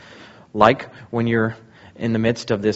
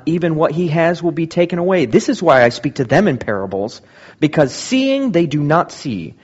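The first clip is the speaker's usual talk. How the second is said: louder, raised preaching voice; proclaiming Jesus' words; 5 semitones higher, 4 dB louder than usual. Acted. Pastor voicing Jesus' answer to the disciples, louder and raised. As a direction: declare it to the crowd. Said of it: "His response".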